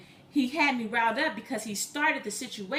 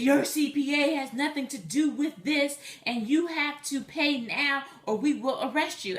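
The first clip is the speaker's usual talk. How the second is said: mildly raised, argumentative scammer; mock fussing; 3 semitones higher than usual. Fake IRS caller threatening her with arrest, mock fussing. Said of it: "really fussing at me".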